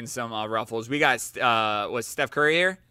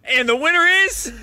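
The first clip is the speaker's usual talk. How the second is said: announcer voice; 7 dB louder than usual. Pretend. Mock award announcement.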